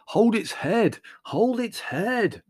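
high, loud frantic orders; urgent shouting. A narrator's reading. Leslie struggling with the donkey in the hall, shouting urgently. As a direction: yell it mid-struggle.

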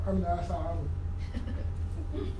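slow, low, trailing into a laugh; owning up to his own temper, laughing; sheepish admission. Real, not acted. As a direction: confess it with a guilty chuckle. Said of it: "That's how we talk".

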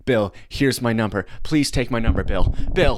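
a hint of a fan begging Bill; mildly imitating girls pushing their number; lightly voiced eager girls. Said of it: "running up to Bill and being like".

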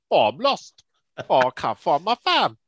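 high, loud whiny lost voice; mock lost farmer. Mocking a lost farmer in a high, loud whine. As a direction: wail it like a helpless lost man.

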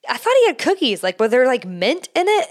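a lightly voiced curious vet tech; puzzled vet tech. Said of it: "is like".

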